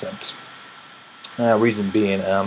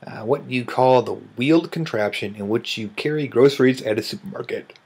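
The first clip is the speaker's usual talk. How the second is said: yawning; 2 semitones higher than usual. Real, not acted. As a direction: ask it mid-yawn. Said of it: "I should not do this when I'm yawning".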